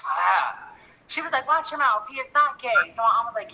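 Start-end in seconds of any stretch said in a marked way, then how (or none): 1.5-2.9 scolding mom imitation.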